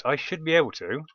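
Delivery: "should" given extra weight as a hedge; cautious emphasis on "should"; stress on should. Real, not acted. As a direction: lean on the word "should". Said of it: "I stress the word should".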